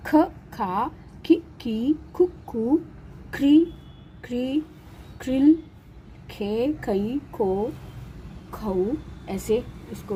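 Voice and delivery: ख, खा, खी, खी, खु, खू spoken one by one, each vowel sign sounded clearly; teacher chants ख, खा, खी, खी, खु, खू for students; reciting the ख syllables. Shown as a demonstration. Teacher reciting ख with each vowel sign, slow and clear. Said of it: "तो इसको उच्चारण करेंगे".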